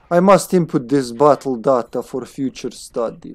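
put-on German accent slipping into Slavic; attempted German accent. Scientist logging battle data, attempted German accent. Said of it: "that's still slap".

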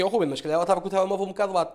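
fast mock objector; imagined objection. Ruben voices a viewer's objection, fast and mocking. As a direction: rattle off the viewer's excuse. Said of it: "podes-me dizer assim".

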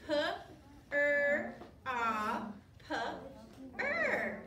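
all five sounds of "proper" said separately; "P", "er", "ah", "p", "er" with pauses between; sounding out. Shown as a demonstration. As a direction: count the sounds aloud one at a time. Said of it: "You ready?".

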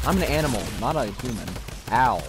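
put-on Russian accent. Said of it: "I'm doing a Russian accent".

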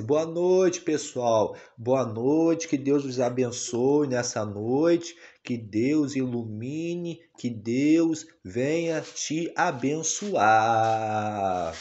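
voicing the baby. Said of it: "Fala assim".

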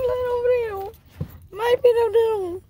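very high doting coo. Real, not acted. Owner cooing pet names to little dog, high baby talk.

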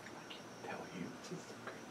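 whispering. Acted. Child keeps grandma's surprise secret.

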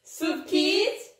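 drawn-out announcer call; quiz show call. Acted. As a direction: call out the quiz segment slowly.

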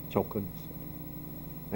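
조건이 echoed quietly to the congregation; soft echo. Shown as a demonstration. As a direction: repeat 조건이 under your breath. Repeated key phrase, softer.

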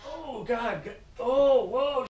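high, loud startled whoa; mock excited yelp. Fisherman hooking a brown in front of others, high excited yelp. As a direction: yelp like a big fish just hit.

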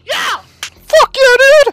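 loud gung-ho soldier. Pretend. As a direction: cheer it like a pumped-up marine. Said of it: "that's what Marines are like".

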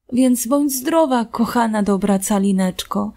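plain reading voice

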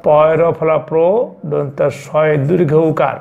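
slow letter-by-letter spelling; dictating the letters slowly to students. Shown as a demonstration. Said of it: "উচ্চারণটা হবে ফলপ্রসূ".

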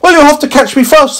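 very high cheeky alien. Acted. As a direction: tease in a squeaky voice. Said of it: "said the alien".

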